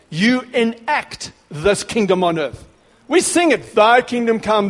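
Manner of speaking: aggressive preaching. Real, not acted. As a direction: thunder it at the congregation. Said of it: "Sorry, I'm a little aggressive".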